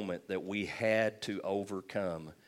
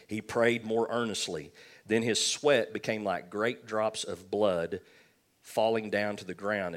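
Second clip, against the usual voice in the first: scripture reading; 3 dB louder than usual. Acted. Reads scripture aloud.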